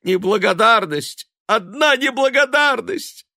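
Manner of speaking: high, loud tearful wail; bursting into tears. A narrator's reading. Mother breaking into tears at her son's ingratitude. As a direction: cry out the grievance. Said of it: "разражаясь слезами".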